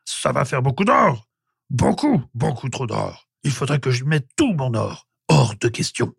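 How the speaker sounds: flustered caveman in a put-on voice; panicking. A narrator's reading. Prehistoric man counting the gold he would lose, panicking. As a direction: fret aloud over the cost. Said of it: "s'affola l'homme préhistorique".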